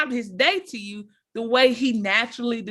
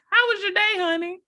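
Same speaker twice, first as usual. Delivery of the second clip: sweet wife question; 8 semitones higher than usual. Retold or imitated. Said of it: "she says".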